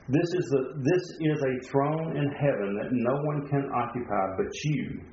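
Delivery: measured read-aloud of a sermon quote; earnest quotation voice; devotional reading. Acted. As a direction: read it out with deliberate emphasis. Reads a Spurgeon quote aloud.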